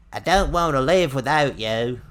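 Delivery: loud, high, drawn-out melodramatic wail; mock tragic ex-girlfriend, big and slow; Nia's overwrought voice. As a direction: wail it slowly, hammed right up. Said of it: "That's how she talks".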